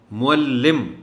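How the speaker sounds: معلم said loud and high, mu-al-lim; clear pronunciation. Shown as a demonstration. Teacher pronounces معلم clearly for students. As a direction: call out معلم syllable by syllable. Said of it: "بہت دفعہ پڑھ چکے ہیں".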